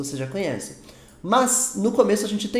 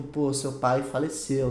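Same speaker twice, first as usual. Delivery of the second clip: lower, slow, gently put condolence; sensitive; 4 semitones lower, 4 dB quieter, slower than usual. Acted. Telling someone their father passed away, gentle and sensitive. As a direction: break the news gently and slowly. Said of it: "sensível pra você falar".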